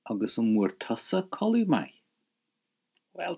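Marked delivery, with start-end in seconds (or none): 0.1-1.9 "tusa" given emphasis; emphatic Irish question. Shown as a demonstration. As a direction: lean on "tusa" to turn the question back. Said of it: "Put emphasis on it".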